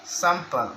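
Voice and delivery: "Sample" with the first syllable stressed, falling away after; "Sample" as a word demo, weight on its opening syllable. Shown as a demonstration. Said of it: "the stress is placed in the first syllable".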